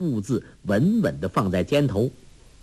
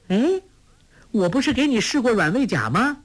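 playful mocking; 11 semitones higher than usual. Girl mocking the farmer.

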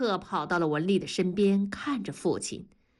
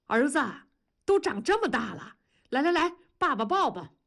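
high, doting father's voice; delighted coaxing; 6 semitones higher, faster than usual. A narrator's reading. Father greets grown little son, delighted and coaxing. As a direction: coo over the child, pitch lifted.

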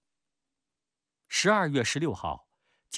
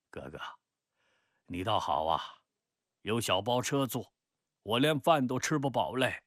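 complaining cousin. Acted. Cousin tells Peng he cannot eat his fill, complaining. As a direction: grumble openly, building to a protest. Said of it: "直言叫苦".

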